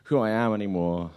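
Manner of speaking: whiny prayer, high at first then sinking; mock whining. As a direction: imitate a self-pitying plea to God. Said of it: "he started to whine".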